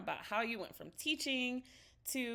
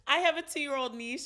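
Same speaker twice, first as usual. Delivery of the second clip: ordinary talk, nothing marked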